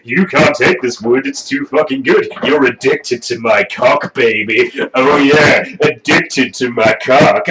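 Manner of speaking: a hint of a smug rock star; mock cocky swagger; douchebag braggart voice. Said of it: "braggadocio douchebag knob lord who's like".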